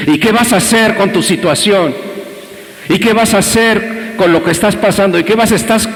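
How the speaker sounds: más agudo, preguntas insistentes; reto insistente. Retold or imitated. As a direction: martilla cada pregunta. Predicador reta una y otra vez. (el pastor acosa al caído con preguntas)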